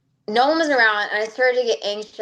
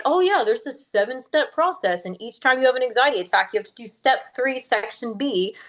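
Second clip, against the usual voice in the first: higher, mock-fancy expert voice; 4 semitones higher than usual. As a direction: parody a pompous self-help guru. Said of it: "there's no fancy".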